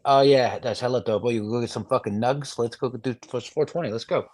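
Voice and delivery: lazy Northern California stoner slang; loose, slack Northern California talk; casual Northern California accent. Acted. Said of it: "Northern California would be like".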